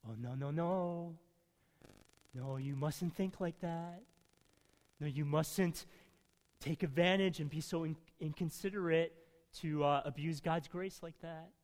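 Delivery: lightly voiced grandfather, mildly chiding; gentle grandfather. Mild grandfather gently warning his grandchildren. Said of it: "Paul like a grandfather saying".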